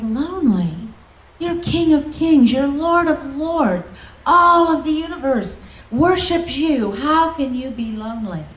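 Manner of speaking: can't believe the King of Kings is lonely; incredulous. Retold or imitated. Asks Lord how he's lonely.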